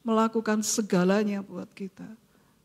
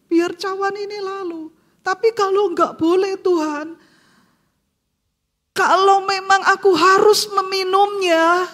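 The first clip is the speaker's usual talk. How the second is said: higher, louder urgent plea that settles into surrender; pleading prayer; 6 semitones higher, 4 dB louder than usual. Retold or imitated. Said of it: "Itu doa yang Yesus ulang".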